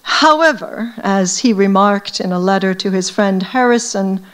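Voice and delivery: measured literary read-aloud; novel reading. A narrator's reading. Author reading his novel to an audience, measured narration. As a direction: read the passage aloud to a listening audience, unhurried.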